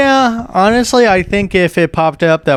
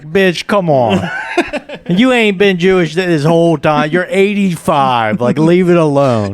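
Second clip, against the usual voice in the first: exasperated; 3 semitones higher than usual. Retold or imitated. Mocking the step grandma.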